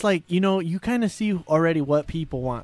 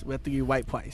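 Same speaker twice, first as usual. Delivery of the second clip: R softened to W in "white price"; "white price" in a put-on Asian accent; mock Asian accent; 4 semitones lower, 7 dB quieter than usual. Car salesman joking about an Asian customer, mock Asian accent. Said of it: "you're Asian".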